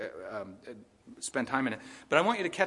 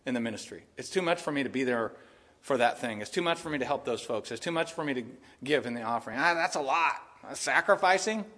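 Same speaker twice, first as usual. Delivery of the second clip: complaining attitude; 5 semitones lower than usual. Retold or imitated. Preacher mimicking a complaining churchgoer, lower grumbling. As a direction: moan like serving God is a burden. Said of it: "attitude that says".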